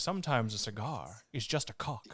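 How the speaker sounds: punchline through a laugh. Real, not acted. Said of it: "the phrase".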